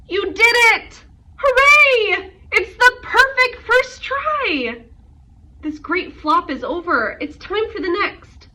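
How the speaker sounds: very high, loud, overjoyed; joyful cheer. Acted. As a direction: cheer like the flop was a triumph. Aunt cheers Rosie's flop.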